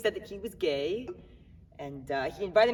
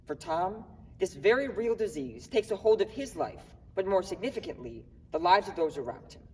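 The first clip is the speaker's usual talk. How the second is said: formal introduction. Acted.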